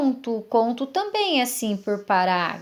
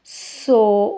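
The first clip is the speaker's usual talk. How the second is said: "So" held on its own; single out "So" as a syllable; drawn-out "So"; isolated syllable. Shown as a demonstration. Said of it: "outra sílaba".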